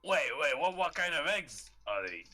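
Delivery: startled questioning. Acted. Asking a fellow adventurer what eggs these are, startled. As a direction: blurt it out in alarm.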